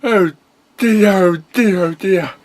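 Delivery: bright, high cartoon pony hero. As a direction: play the chipper young pony hero.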